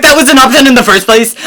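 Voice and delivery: can't believe what you're hearing; incredulous outrage. Retold or imitated. Quoting herself to the doctor in high incredulous outrage.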